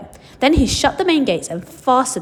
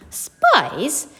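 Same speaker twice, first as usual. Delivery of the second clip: surprised echo; 5 semitones higher than usual. Acted. Charlie echoes in surprise.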